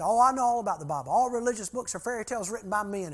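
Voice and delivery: imitated angry rant. Mad bus driver dismisses the Bible to the interviewer, imitated ranting. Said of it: "he went on a rant".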